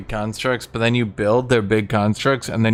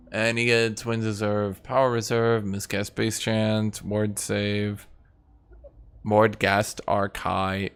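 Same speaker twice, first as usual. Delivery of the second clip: usual speaking voice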